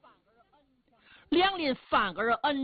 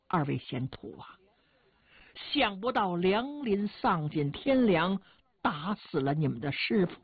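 widow holding back tears; tearful. Acted. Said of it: "朱老夫人流着眼泪跟卢方位置说". (含泪诉说)

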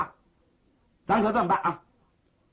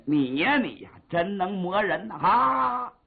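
teasing laugh; slower than usual. Acted. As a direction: tease her and burst out laughing. Brother laughs pointing at sister. (哥哥指着妹妹笑骂)

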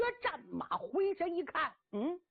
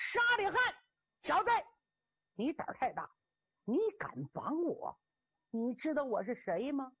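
blustering boast; 3 semitones higher than usual. Acted. Cheng Yaojin blusters at captor.

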